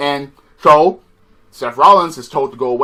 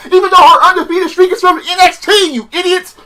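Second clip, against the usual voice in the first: high, laughing, incredulous insult; laughing rant; 14 semitones higher, 5 dB louder than usual. Real, not acted. Vlogger mocking WWE writers, laughing. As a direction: laugh while scolding.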